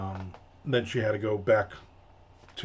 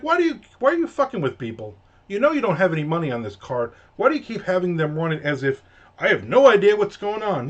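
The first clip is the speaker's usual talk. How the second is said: mock scolding, pitched up; exasperated rebuke; 5 semitones higher, 3 dB louder than usual. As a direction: scold a time-waster in exasperation. Teller scolds customer in imagined rebuke.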